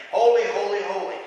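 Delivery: loud proclaiming cry; ringing proclamation of holy; angels yelling. Retold or imitated. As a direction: call it out like the angels. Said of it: "That's what they're yelling".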